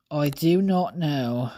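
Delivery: quick, offhand British "Oh, I do not know"; British accent. Pretend. Vlogger shrugs again, lightly British. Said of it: "I don't know why I became British".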